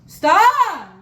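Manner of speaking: loud flustered yelp; flustered shout. Real, not acted. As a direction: cut yourself off, embarrassed. Flustered outburst.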